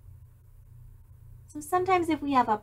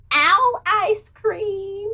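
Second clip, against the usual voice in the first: owl voice; 6 semitones higher, 6 dB louder, much slower than usual. Acted. Owl voice in read-aloud.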